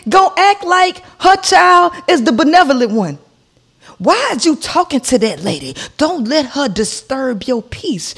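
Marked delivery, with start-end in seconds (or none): 4.0-8.1 mock mother voice. Mimicking the neighbour's mother, soothing mockingly. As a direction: coo it like a smug mom.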